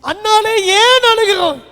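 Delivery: loud tender question to his weeping wife; husband asking. Acted. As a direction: plead like a worried husband. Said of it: "இப்படி ஒரு கேள்வி கேட்கிறார்".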